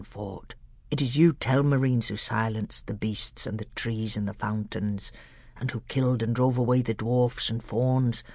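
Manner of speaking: a hint of a grave old scholar; old doctor.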